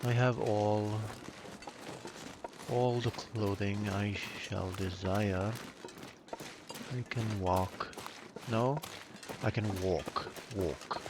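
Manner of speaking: a dry, mock-formal British accent; dry British accent, lightly put on. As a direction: play the stiff British gentleman, deadpan. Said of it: "my very dry British accent".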